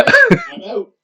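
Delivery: high, loud cry of defeat; exasperated shout. Real, not acted. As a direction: yell it in despair. Character drops, exasperated.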